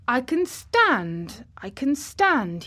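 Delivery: lightly voiced proud boy standing at last; grandly. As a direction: announce it slowly like a triumph. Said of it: "he said it quite grandly".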